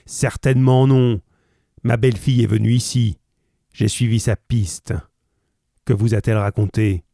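refus brutal puis questions rapides; colère pressée. Acted. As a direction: presse les mots dans sa colère. Roylott répond sèchement. (colère pressée du visiteur)

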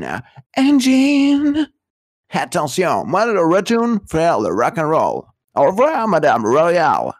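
a hint of a rock-star swagger; lightly voiced rock star saying goodbye; rock singer impression. Rock star waving off the minister, lightly voiced as a singer. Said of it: "il fait un chanteur".

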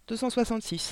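put-on a girl says the number again, softly; child's soft voice. Girl repeats her answer to teacher, softly. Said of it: "répéta Mathilda".

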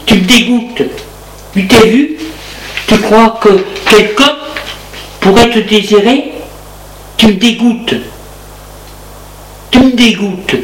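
put-on woman spitting disgust at the drunk man; contemptuous woman.

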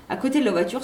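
ordinary delivery

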